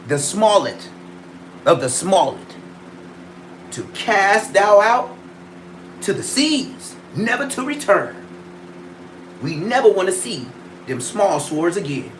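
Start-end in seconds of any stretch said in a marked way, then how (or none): 3.7-8.2 a hint of a fake prophet casting out; mock biblical prophet. Archaic proclamation.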